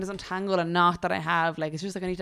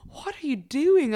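imitating friend; 8 semitones higher, 4 dB louder, slower than usual. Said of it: "she was like".

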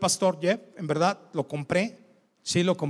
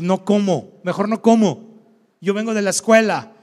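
loud mock tantrum of a child; tantrum whining; 7 dB louder than usual. Father imitating his son refusing chores and dinner, mock tantrum. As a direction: imitate a kid's indignant, wailing refusal. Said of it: "Y un lloradero, y pa-, y pateo".

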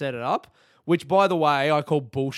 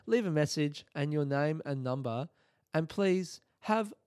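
mock-serene voicemail greeting; imitated calm voicemail voice; 2 semitones higher than usual. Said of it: "he had that calm voice".

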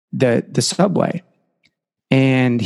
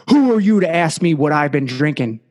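mildly acted disgusted retort; a touch of drunken contempt; retold scornful challenge; utter disgust; 3 semitones higher than usual. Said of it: "looks down at him in utter disgust".

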